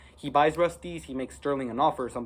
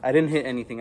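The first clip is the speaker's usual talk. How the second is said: louder quick reassurance; defensive; 4 dB louder, faster than usual. Real, not acted. Kid reassuring viewers after smashing, defensive. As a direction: insist nothing was broken.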